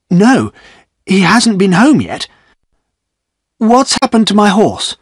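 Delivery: Godfrey fears for his horse; alarmed. Acted.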